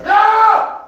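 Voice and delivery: very high, loud shrieking no; a deaf cat yowling. Retold or imitated. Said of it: "she went".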